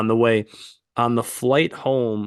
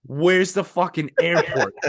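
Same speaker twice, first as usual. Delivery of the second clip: slow, laughing repeat of "Where's the fucking airport?"; laughing retell; 4 semitones higher than usual. Retold or imitated. Retelling the absurd drop-off to friend, slow and laughing. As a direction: drag it out through laughter. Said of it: "like, dude".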